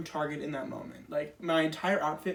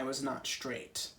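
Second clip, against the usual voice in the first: whispered, much softer and lower; whispered punchline; 5 semitones lower, 9 dB quieter, slower than usual. Real, not acted. Ending the joke about her spine, whispered. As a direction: drop the last word to a whisper.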